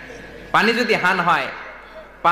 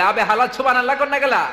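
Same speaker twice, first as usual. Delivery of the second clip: mock preacher shout; 5 semitones higher than usual. Old Dhaka preacher urging crowd, mock shout. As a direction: bellow it at a mahfil. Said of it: "চিৎকার দিয়ে মাঝে মাঝে বলে".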